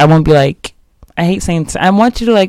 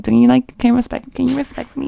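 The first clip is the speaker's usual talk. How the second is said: pleading; 8 semitones higher, 4 dB quieter than usual. Retold or imitated. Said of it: "and I'm like".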